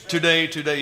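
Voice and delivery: Today, today with a long to and short day; dotted rhythm word. Shown as a demonstration. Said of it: "yeah, there you go".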